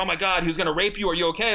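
high, fast imitation of a panicked clerk; mock panicked clerk. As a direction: squeak out her alarm, fast. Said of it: "She's like".

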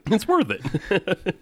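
slow, high hammed-up ad slogan; slogan read. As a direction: sell it like a TV slogan, slowly. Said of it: "that's our new slogan".

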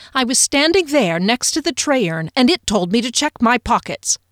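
agitated elf explaining. Acted. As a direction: blurt out the story.

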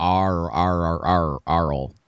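low growled pirate arr; accidental pirate growl. Real, not acted. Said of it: "Now I just sounded like a pirate".

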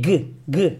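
"G, G" as a bare "guh" release; mute final G. Shown as a demonstration. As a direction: say "G" as the consonant alone, not the letter name. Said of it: "com um som mudo".

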